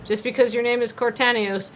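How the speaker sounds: mock legal advert, earnest and measured; lightly voiced serious lawyer. Lawyer seeking class action clients, mock-serious ad read. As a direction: sound lightly like an earnest TV attorney.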